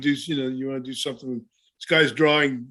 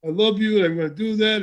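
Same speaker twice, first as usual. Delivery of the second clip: Pedro's promo; 5 semitones higher than usual. Retold or imitated. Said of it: "pretty much a standard".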